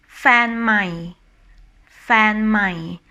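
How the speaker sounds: "mai" dropping low after "fan". Shown as a demonstration. Teacher giving an example for new boyfriend, low tone on "mai". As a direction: let "mai" sink at the end of "fan mai". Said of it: "with low tone".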